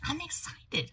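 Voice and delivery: high-pitched, giddy; bubbling over with excitement; excited. Real, not acted. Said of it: "I told you I am off the wall".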